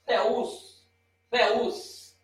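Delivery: Theus with a breathy th; teaching pronunciation. Shown as a demonstration. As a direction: model Theus slowly for students. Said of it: "tomar cuidado na hora da pronúncia".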